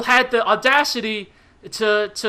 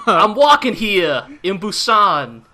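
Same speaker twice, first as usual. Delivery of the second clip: bad New York accent; slower than usual. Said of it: "extremely bad New York accents".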